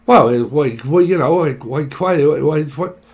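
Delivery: loud, stammering mock reply; flustered stammer. Mock pierced person answering, loud and stammering. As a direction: stumble over every why. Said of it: "They're like".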